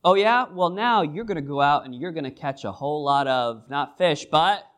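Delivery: preacher voicing Jesus with exaggerated enthusiasm; playful Jesus. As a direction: tease him with a big offer. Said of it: "Jesus says".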